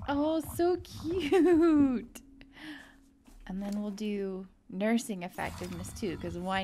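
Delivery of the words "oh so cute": high, very slow stretched coo; drawn-out adoring squeal; cutesy gushing. Real, not acted. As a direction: coo it out, stretching the last word. Gushing over cute animation.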